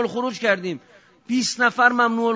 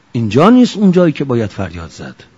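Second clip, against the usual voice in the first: shout; 7 semitones lower, 8 dB louder than usual. Real, not acted. Preacher rebuking seminary listeners.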